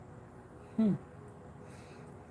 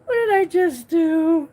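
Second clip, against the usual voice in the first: higher, louder repeat of a stunned question; retold alarm; 10 semitones higher, 5 dB louder than usual. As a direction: replay the alarm, pitched right up.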